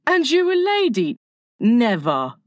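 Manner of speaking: high indignant question, dropping to firm; chivalrous boy refusing outright; shocked boy, then resolute; gallant refusal. A narrator's reading. Peter gallantly refusing Wendy's offer.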